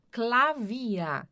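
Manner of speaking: Klavier with the final -er said as an open A; final -er como A. Shown as a demonstration. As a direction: say Klavier ending in "ah", no R heard. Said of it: "terminou em E R, som de A". (Klavier com o -er final soando como A)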